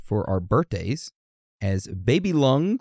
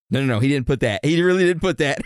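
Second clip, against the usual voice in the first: laughing; 4 semitones higher, 4 dB louder, faster than usual. Real, not acted. Laughing denial of joke.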